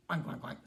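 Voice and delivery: pig oinking. Acted. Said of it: "said the pig".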